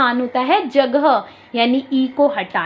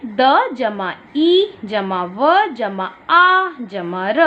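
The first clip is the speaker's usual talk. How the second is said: slow counting out; much slower than usual. Shown as a demonstration. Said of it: "जोड़कर एक शब्द बनाना है".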